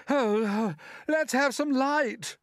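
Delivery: high, loud, slow desperate call; shouting. Acted. Centipede shouting in the dark for light, high and loud. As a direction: cry out into the pitch dark. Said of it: "shouted the centipede".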